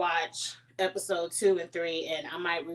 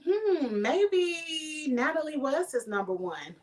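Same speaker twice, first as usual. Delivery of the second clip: giggling, higher, slower teasing aside; laughing tease; 7 semitones higher, slower than usual. Real, not acted. Vlogger teasing Natalie about Nick, laughing. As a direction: laugh through the jab.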